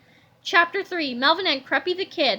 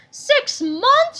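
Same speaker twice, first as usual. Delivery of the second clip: very high, louder shocked scream; Creppy screams at the news, high; 10 semitones higher, 5 dB louder than usual. A narrator's reading. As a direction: shriek in disbelief. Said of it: "screamed Creppy the Kid".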